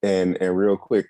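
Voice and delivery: talking around new braces. Real, not acted. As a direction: speak like braces fill your mouth. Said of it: "I might be talking a little funny".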